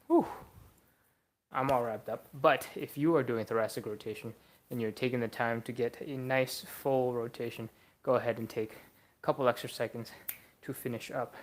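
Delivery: breathless after a workout; out of breath. Real, not acted. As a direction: talk while still out of breath. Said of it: "Man, I'm kinda out of breath".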